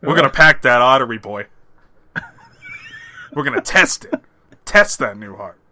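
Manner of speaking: loud, gruff movie-hero growl; booming Denzel-style pep talk; Denzel Washington impression. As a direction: pump up the son like a tough movie dad. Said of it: "You do a pretty good Denzel".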